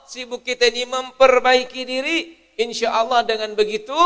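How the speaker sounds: loud, high, urgent preaching; preaching at full force. Acted. Preacher urging listeners to repent, loud and high. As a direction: urge them to repent, rising.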